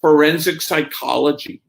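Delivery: matter-of-fact, no hesitation on "Forensic psychology"; very quick answer. Retold or imitated. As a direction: imitate a student's ready, prompt reply. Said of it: "she was very quick".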